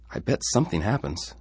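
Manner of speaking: put-on young David, uncertain; boy's voice. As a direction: voice a small worried boy. David again.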